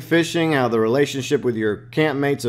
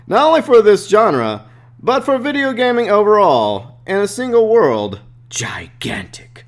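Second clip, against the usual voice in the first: hammed-up Italian flair; 8 semitones higher, 5 dB louder than usual. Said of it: "I'm getting carried away here".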